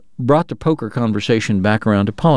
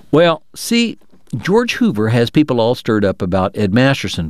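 Bob, persuasive. Acted. Bob pitching Wyatt to the players, light folksy persuasion. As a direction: sell the idea like a folksy schemer. Bob's dialogue at poker table.

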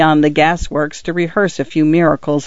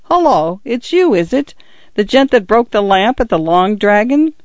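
higher constable's voice, recognising the culprit; suspicious constable; 5 semitones higher than usual. Acted. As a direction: policeman catching a known troublemaker. Constable Winch's voice.

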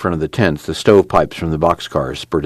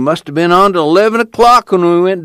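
groggy Pa voice; 13 semitones higher, 5 dB louder than usual. A narrator's reading. Pa grumbling, voiced higher.

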